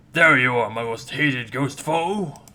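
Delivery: loud, triumphant call; booming battle call; loud challenge. Acted. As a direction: shout it across at an enemy. Ghost spots his hated foe.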